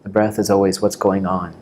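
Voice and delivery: calm meditation teacher, long pauses between phrases; guided meditation. Real, not acted. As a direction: guide them gently into the breath, unhurried.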